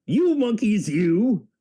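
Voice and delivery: mock-angry peddler telling off monkeys; scolding peddler. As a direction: wag a finger and scold. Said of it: "And he said, shaking a finger".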